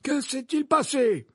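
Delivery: high, drawn-out stern question; curt. A narrator's reading. Dumbledore questions the minister and the professor, curtly. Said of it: "demanda-t-il sèchement".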